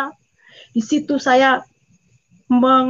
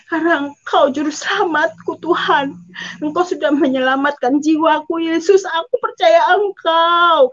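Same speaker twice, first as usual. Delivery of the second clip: retold fervent cry; 3 semitones higher than usual. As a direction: re-enact a desperate declaration of faith. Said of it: "kami itu teriak". (seruan doa yang makin kuat)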